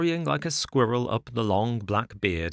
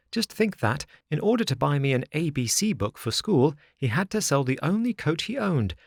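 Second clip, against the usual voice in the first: put-on higher, earnest little wooden boy; eager puppet boy; 6 semitones higher than usual. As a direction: tell it like a proud, worried child. Pinocchio voiced by narrator.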